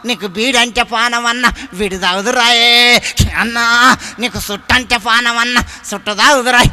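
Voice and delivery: loud, slow mock lament for a dead brother; mock mourning wail. Preacher mimics a mourner at the body, loud mock wailing. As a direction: wail it like a village mourner, hammed up. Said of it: "ఎట్లా ఏడుస్తారంటే".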